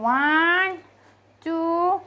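loud, rising count with pauses; commanding count. Real, not acted. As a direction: count your pet into action. (hitungan aba-aba lantang)

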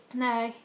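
"Nej" drawn out, stressed on the first half; first-syllable stress. Shown as a demonstration. Answering whether it rained, "Nej" stressed up front. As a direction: open firmly on the front of "Nej". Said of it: "the first syllable".

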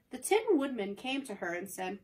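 steady storybook reading; story narration. A narrator's reading. Narrator reading to the audience, calm storybook voice. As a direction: read the tale to listeners.

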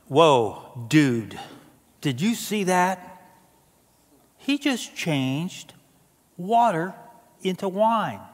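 a lightly voiced stunned "whoa, dude"; awed surfer dude. Pastor voicing the awestruck disciples, lightly amazed. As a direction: play a disciple gobsmacked by the miracle. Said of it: "And they're like".

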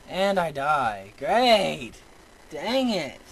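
loud, exasperated groaning complaint; real gamer frustration; frustrated. Real, not acted. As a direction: drag it out, loud and fed up. Dies in the game.

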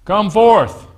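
called out high and loud; loud cry. Retold or imitated. Jesus calling Lazarus from the tomb, a loud cry. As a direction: cry it out as a commanding summons. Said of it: "cried out with a loud voice".

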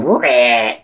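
short demo screech; mock screech. Shown as a demonstration. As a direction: imitate a screech, not at full force. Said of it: "I wasn't even screeching".

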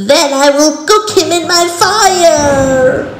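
high, loud witch voice; sing-song wicked hag; old hag. A narrator's reading. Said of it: "cackled the witch".

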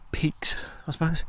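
a quick muttered afterthought; whispered aside. Real, not acted. Vlogger trailing off about stiff peaks, whispered. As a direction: whisper it under the breath.

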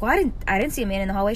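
very fast, tumbling words; nervous rushed denial. Retold or imitated. Nanny telling the child she saw no man. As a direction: rattle it off, freaked out.

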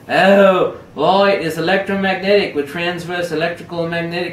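lightly put-on, very poor Australian accent. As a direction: explain the optics in a barely-there Australian accent. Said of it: "very poor Australian accent".

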